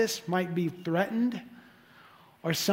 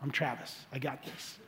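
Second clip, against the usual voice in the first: smug self-mockery; 2 semitones lower than usual. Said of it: "We have to make sure that we don't".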